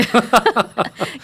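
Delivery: a quick, light laugh; short laugh. Real, not acted. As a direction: laugh warmly at the answer. 진행자가 사투리 얘기에 웃음. (가볍게 짧게 웃음)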